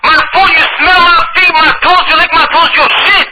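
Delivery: put-on high, loud Dominican accent shouting in broken English. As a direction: yell furiously in a Dominican accent. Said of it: "I'll be talking in broken English".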